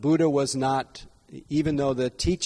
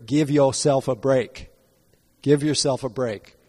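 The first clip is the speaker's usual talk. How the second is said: a light imitation of a Southern American accent, a bit louder; Herman Cain accent; 4 dB louder than usual. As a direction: mimic a Southern American accent gently, "Give yourself a break" leaning on "Give". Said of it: "when I try to mimic his accent".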